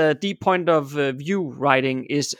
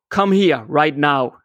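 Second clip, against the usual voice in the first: king shouting; slower than usual. Acted. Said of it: "shouted the king".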